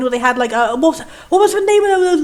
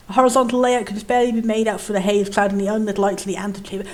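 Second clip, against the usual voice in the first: measured, slightly lower narrator read; story narration; 5 semitones lower, 5 dB quieter, faster than usual. A narrator's reading. Reading the dark antechamber's description, measured narration.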